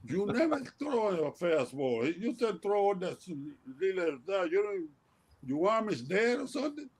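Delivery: teasing jab, pitched well up; playful high mock yell at a pitcher friend about his fastball. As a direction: rib an old friend in a high needling voice. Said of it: "I always yelling at him and saying".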